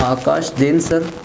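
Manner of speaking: slow, जैन stressed; slow dictation. Shown as a demonstration. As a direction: dictate the name slowly while writing. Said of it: "पहले English में लिखेंगे". (लिखवाते हुए धीमे से नाम बोलना)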